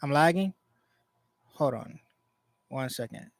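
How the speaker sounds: breaking up. Real, not acted. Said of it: "Lagging and breaking up".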